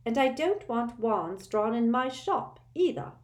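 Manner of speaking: high, flustered shopkeeper voice, rushing the words; a fussy seamstress hurrying to stop trouble; hasty Madam Malkin. A narrator's reading. Shopkeeper hastily warning the boys off, high and flustered. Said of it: "she added hastily".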